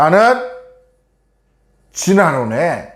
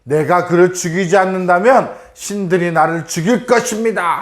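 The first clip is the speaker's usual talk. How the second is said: acted royal vow, lightly irritated; a touch of mock royal temper; mildly irritated queen; 3 semitones higher than usual. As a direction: voice the queen's annoyed oath with restraint. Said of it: "짜증을 낸 거야".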